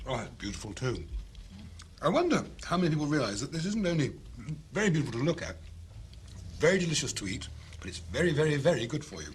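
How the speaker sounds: talking with a mouthful; words round a bite of food; mouth full. Real, not acted. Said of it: "I've been told off for speaking with my mouth full".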